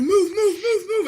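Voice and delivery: high, loud urgent yell; shouting commands. Retold or imitated. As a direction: bark move over and over. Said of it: "literally, like, doing this".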